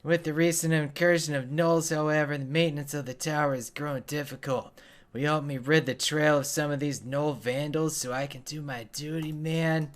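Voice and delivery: lightly voiced weary guard asking for help; a hint of a put-upon NPC pleading for aid; quest-giving tower keeper.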